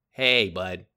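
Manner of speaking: a hint of the upbeat boss buttering him up; manager's voice. Manager praising the busboy, lightly imitated chummy tone. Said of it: "He talks just like that".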